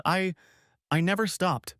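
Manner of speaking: high, faltering plea; falter, then plead high through tears; tearful insistence. A narrator's reading. Desperate wife swearing her love, tearfully pleading. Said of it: "she insisted through tears".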